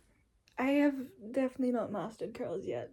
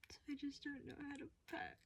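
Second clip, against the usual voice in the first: late-night whisper; 5 semitones higher, 12 dB quieter than usual. Real, not acted. Packing at 3:49 AM.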